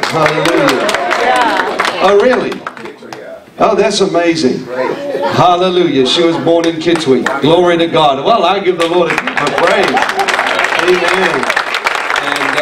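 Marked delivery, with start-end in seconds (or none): none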